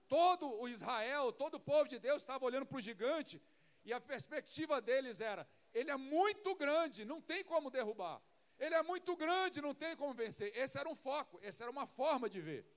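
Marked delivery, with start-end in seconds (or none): 5.7-10.5 fearful doubt. Retold or imitated. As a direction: say the giant is too big to beat, losing hope. Israel fearful before the giant. (medo e desânimo diante do gigante)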